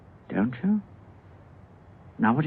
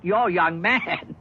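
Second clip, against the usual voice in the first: taken aback; 6 semitones higher, much slower than usual. Acted. Stunned at her fiancé news.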